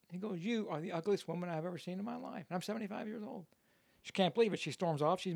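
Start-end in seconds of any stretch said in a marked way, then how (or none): 0.4-3.5 higher-pitched joke parrot; insulting parrot. Acted. Parrot to woman at the window, mock insulting.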